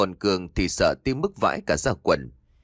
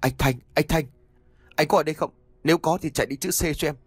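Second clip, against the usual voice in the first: calling out to a spirit, higher; gọi hồn; 6 semitones higher, faster than usual. A narrator's reading. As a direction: summon the dead brother. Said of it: "Quý liền cất tiếng gọi". (giọng gọi hồn vang vọng)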